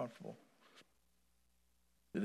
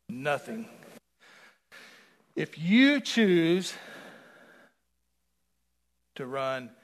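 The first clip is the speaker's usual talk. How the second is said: slow emphatic warning; 9 dB louder, much slower than usual. Real, not acted. Preacher warning the congregation, drawn out slowly. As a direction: stretch each word out, much slower and louder.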